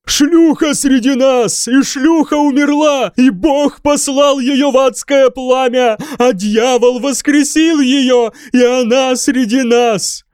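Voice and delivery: high, loud forceful proclamation. A narrator's reading. Mad monk proclaiming to the king with force. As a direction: thunder it like a prophet. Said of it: "силой произнёс Годвин".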